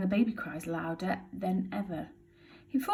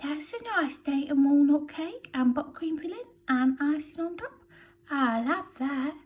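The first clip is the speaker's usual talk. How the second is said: burglar voice; 8 semitones higher than usual. Acted. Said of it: "Voice says".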